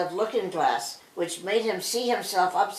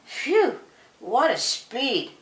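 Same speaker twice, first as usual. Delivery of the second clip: higher, louder, joyful yell; excited cry; 8 semitones higher, 3 dB louder, slower than usual. A narrator's reading. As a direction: whoop it out on the galloping goat. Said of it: "cried Claude Pole".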